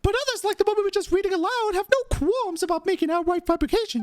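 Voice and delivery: high, theatrical righteous complaint; indignant reporter character. Acted. Reporter denouncing third-rate tabloids, high and indignant. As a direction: rant in a high, put-on character voice. Voices Charlotte in game.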